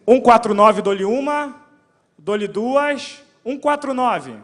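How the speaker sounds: loud auctioneer countdown; going once, going twice, auction style. Pretend.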